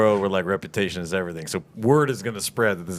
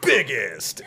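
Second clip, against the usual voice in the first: monster truck ad; 4 semitones higher than usual. Retold or imitated. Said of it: "like monster truck commercials".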